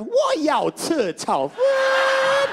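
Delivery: "Wo yao che chao fan" shouted very high and drawn out; wild tone guess. Shown as a demonstration. Comedian guessing Mandarin tones, very high, shouted. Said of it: "gue lempar aja".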